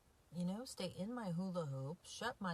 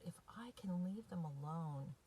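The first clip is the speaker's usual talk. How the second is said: emotional. Real, not acted. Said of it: "I'm a little emotional".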